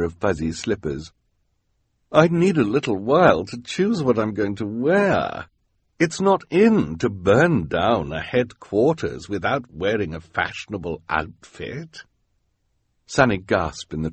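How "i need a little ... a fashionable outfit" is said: snooty woman voice. Acted. Esme speaking about fashion.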